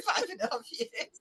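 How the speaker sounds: high laughing shriek into the words. Real, not acted. Quoting her reassurance to David, she dissolves laughing. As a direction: squeal it out through the laughter. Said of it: "you're making me choke".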